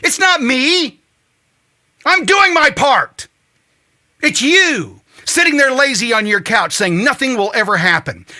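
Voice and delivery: ranting at couch sitters, high and loud; squeaky wheel yelling. Acted. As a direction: yell it at the nation like the squeaky wheel. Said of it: "the squeaky wheel that says".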